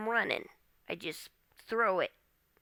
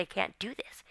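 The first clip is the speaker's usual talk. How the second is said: hushed; 6 dB quieter than usual. Retold or imitated. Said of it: "I said".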